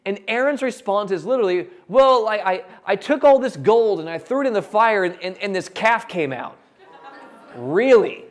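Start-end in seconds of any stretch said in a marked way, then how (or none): 1.9-6.6 stammering, higher and louder, caught out; flustered excuse. Acted. Aaron stammering his calf excuse to Moses, flustered. 7.5-8.2 loud, disbelieving really; incredulous. Real, not acted. Preacher scoffing at Aaron's calf story, loud disbelief.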